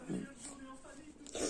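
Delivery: cold-roughened voice breaking up; voice cracking. Real, not acted. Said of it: "j'ai la voix qui part en sucette".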